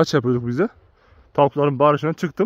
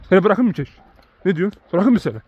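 talking to the dog; 4 semitones higher, 4 dB louder, faster than usual. Real, not acted.

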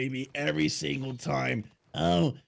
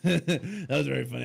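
laughing. Real, not acted. Dad laughing after prank.

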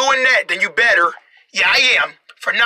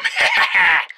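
low play-acted chuckle; plotting laugh; 4 semitones lower than usual. Trap setter plans to catch criminal, plotting laugh. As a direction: pretend schemer's laugh.

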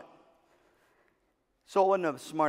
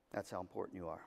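much softer and lower, almost to himself; hushed; 11 semitones lower, 17 dB quieter, faster than usual. Acted. Speaker to the teachers after the girl's story, hushed and soft. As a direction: let it land softly after the sad story.

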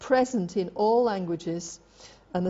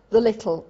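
"the little" blended into one word; run together; 6 dB louder than usual. Shown as a demonstration. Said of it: "that's run together as one word".

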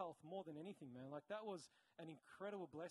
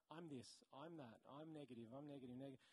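low, soft, droning litany; dejected self-talk; 4 semitones lower, 6 dB quieter than usual. Acted. Imagined son repeating what he hears daily, dejected. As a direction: recite put-downs softly, sinking.

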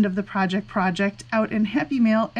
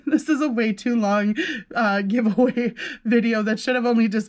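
laughing. Real, not acted. Laughing at own long video.

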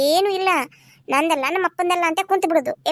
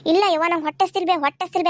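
mocking the child; much faster than usual. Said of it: "ಅಂತ ಕುಣ್ಕೋತ ಹೋದ".

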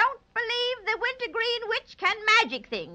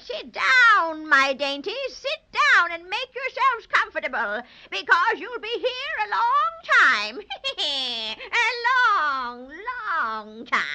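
gloating witch. Acted. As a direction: savour the threat like a witch. Witch taunts captives.

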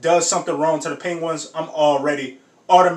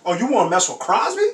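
mock tough guy; 5 semitones higher than usual. Acting out defending Crosby.

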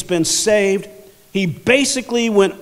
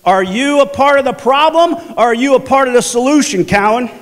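mock stern challenge, raised pitch; challenging manager; 4 semitones higher, 3 dB louder than usual. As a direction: confront him like a boss on the radio. Acts out manager's challenge over radio.

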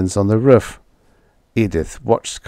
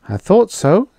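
ordinary delivery

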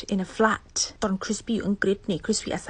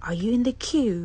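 polite asker; much slower than usual. Shown as a demonstration. Politely asking a stranger whether they are in the queue. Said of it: "โทษนะ อันนี้อยู่ในคิวหรือเปล่าคะ".

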